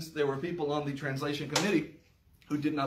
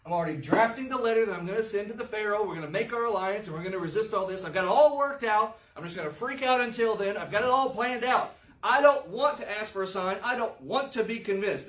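lightly voiced smug politician, a bit higher and fast; scheming politician; 4 semitones higher than usual. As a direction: rattle off his plans like a slick politician. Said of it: "He's such a politician".

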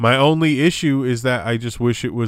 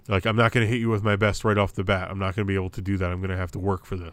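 imagined wrestler's thoughts; faster than usual. Retold or imitated. Voicing wrestlers' unspoken mutual understanding.

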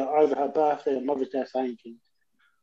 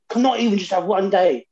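mildly imitated exasperated mum, a bit higher; aggressive mum retelling; 4 semitones higher than usual. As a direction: lightly play a mum snapping at her kids. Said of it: "quite aggressive when she first said it".

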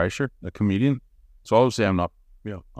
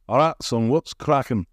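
lightly put-on Yorkshire greeting; Yorkshire accent. Shown as a demonstration. Doing the accent for English visitor, Yorkshire. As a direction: greet a mate in a hint of Yorkshire. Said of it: "that kind of Yorkshire".

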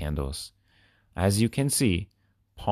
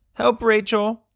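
louder, higher urgent yell; yelling for help; 5 dB louder than usual. A narrator's reading. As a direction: yell to Rachel, now desperate. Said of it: "Chad yelled".

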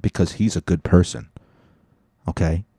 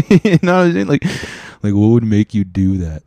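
laughing disbelief; 4 semitones higher, 6 dB louder than usual. Real, not acted. Laughing disbelief after story.

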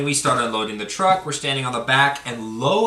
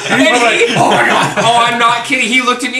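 high, loud, laughing through it; giggling while retelling the payoff; 8 semitones higher, 9 dB louder than usual. Real, not acted. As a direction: talk while still cracking up. Still laughing at the prank.

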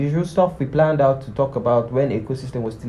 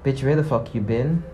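aggressive demand; 3 semitones higher, 5 dB quieter than usual. Shown as a demonstration. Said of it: "barge into someone's space and tell them".

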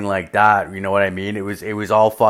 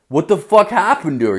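retold shock; 7 semitones higher, 3 dB louder than usual. Feigns surprise to boss.

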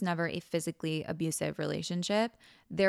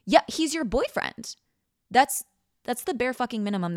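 sarcastic; 6 semitones higher, 5 dB louder than usual. Real, not acted. Mocking the bare minimum excuse.

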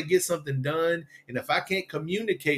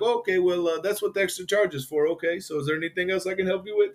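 lightly mimicked, higher-pitched agent voice; customer service agent; 5 semitones higher than usual. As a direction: imitate a phone agent, pitched up. Retold customer service agent on call.

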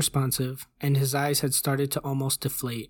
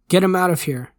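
loud, raised-pitch order; sharp demand; 4 semitones higher, 7 dB louder than usual. A narrator's reading. Agent orders the doctor removed, demanding. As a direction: order it forcefully, no room for argument. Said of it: "one of the men demanded".

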